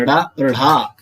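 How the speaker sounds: "ड़ा" with little breath, then "ढ़ा" with a strong breathy puff; teacher spells out "ड़ा और ढ़ा", the second fully aspirated; careful demo of ड़ा and ढ़ा. Shown as a demonstration. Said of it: "तो मतलब उच्चारण कैसे करते हैं?". ("ड़ा" कम हवा से, "ढ़ा" ज़्यादा हवा के साथ)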